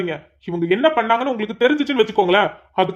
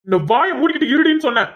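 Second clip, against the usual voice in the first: angry order; 5 semitones higher than usual. Acted. Husband orders his wife to stay silent, angry. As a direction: bark at her to shut up.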